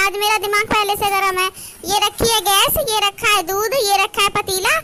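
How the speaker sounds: mildly angry, scolding mother-in-law. Acted. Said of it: "मुझे तो बहुत गुस्सा आ रहा है".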